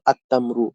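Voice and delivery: "আত-তামরু" with a held t and no l; silent lam, doubled t. Shown as a demonstration. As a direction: go straight onto a double t in "আত-তামরু". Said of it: "সরাসরি তাটা উচ্চারণ হয়েছে".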